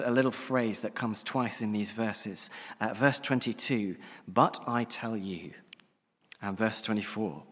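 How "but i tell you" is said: "But I tell you" slow, with weight on "But"; "But I tell you" leaned on, slowed and firm; emphatic quote. Shown as a demonstration. Preacher reading Jesus' words to congregation, slow and emphatic. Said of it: "a very deliberately emphatic phrase".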